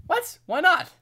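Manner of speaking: high, loud indignant shout; yelling across the room. Real, not acted. Answers shouted spoon protest.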